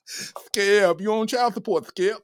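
high, half-whispered mock taunt at Skip; hushed Shannon Sharpe impression. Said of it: "she got them Shannon Sharpe features".

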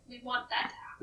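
conspiratorial whisper. Pretend. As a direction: hush it like a secret. Conspiratorial aside.

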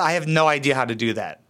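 ordinary delivery

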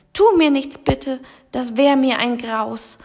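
high, loud scared pleading lion; frightened whimper. Acted. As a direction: beg for mercy in panic. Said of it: "wimmernd wich er erschrocken zurück". (ängstliches Wimmern)

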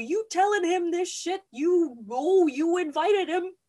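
high, loud mock outrage; hammed-up indignant accusing; heated accusation. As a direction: confront the schemer, voice climbing. Bride accuses housekeeper of scheming.

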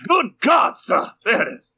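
put-on an old Southern gent gasping in shock; hammed-up Southern gentleman; southern gentleman accent. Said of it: "That's how I get into it".

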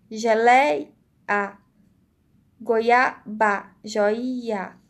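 "praia, jiboia, cheia" split before the final vowel, prai-a; vogal final separada. Shown as a demonstration. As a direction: break off the last vowel in "meio, geleia, joia". ("praia, jiboia, cheia" com a vogal final separada, prai-a)

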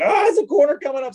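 mock-alarmed sudden notice; startled realization. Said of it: "And I'm like".

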